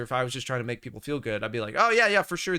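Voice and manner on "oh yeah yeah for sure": higher, eager-to-agree voice; mock crowd pleaser. Analyst mimicking a crowd pleaser, mock agreement. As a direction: mockingly tell them what they want. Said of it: "like, the crowd pleaser".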